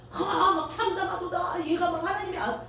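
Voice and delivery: preacher mocking the high priest's staged grief, hammed-up wail; theatrical high priest. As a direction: ham up a showy lament. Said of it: "뭐 별 연극적인 이, 이 쇼맨십을 다 발휘한다고요".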